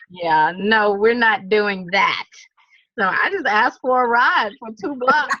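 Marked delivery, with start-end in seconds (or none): 0.1-2.3 slow, louder no-way refusal; flat refusal. Retold or imitated. Hotel staff refuse a two-block ride, slow and flat. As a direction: shut it down, deadpan. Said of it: "Look at me like".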